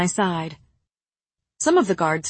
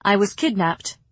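cool. Acted. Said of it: "Nesta answered coolly".

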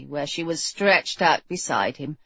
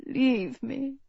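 muttered; 4 semitones higher, 6 dB quieter than usual. A narrator's reading. Sick king dismissing his nurse, muttered. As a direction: mutter it softly under your breath. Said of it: "he muttered".

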